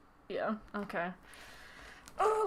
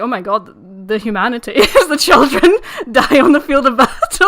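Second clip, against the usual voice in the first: mock dramatic wail; 11 dB louder than usual. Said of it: "Marrow's like".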